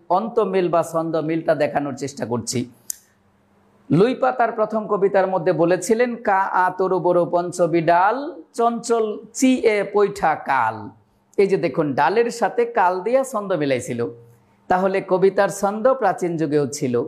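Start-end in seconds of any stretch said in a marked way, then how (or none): 6.1-10.9 put-on slow, measured recital of old verse; chanting Charyapada lines slowly; poem recitation. Shown as a demonstration. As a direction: recite it slowly, leaning on the rhymes. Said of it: "লুইপার প্রথম কবিতার দুইটা চরণ যদি আপনাদেরকে শোনাতে চাই আমি".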